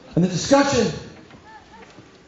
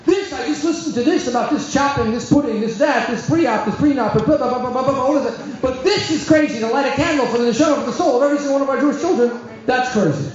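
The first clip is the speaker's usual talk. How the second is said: raised, rising protest building in passion; impassioned retort; 4 semitones higher than usual. Retold or imitated. Rabbi answers the guest at the Shabbos table, heated and raised. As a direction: let it burst out after holding it in. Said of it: "I can't hold it in any longer".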